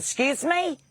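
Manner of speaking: high, indignant excuse me; offended surprise. Retold or imitated. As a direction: play the shocked friend. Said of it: "She goes".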